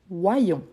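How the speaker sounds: "voyons" with a clear y-glide between "wa" and "on"; double-I sound. Shown as a demonstration. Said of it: "C'est pour ça qu'ici, il y a Y". (« voyons » prononcé wa-yon, avec le double i)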